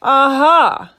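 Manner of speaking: loud, high triumphant aha; detective's eureka cry; shouted. A narrator's reading. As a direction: shout it as a sudden discovery. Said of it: "he shouted".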